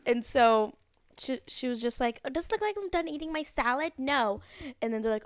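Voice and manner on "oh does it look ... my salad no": quick, higher-pitched snippy question, curt no; entitled Karen. Retold or imitated. Karen tells waiters she's still eating salad, mock indignant. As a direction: imitate an indignant diner. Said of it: "there's this Karen".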